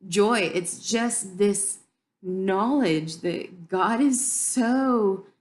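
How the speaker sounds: fighting back happy tears while speaking; tearing up. Real, not acted. Tearing up while telling her about God's love. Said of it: "and I'm tearing up now".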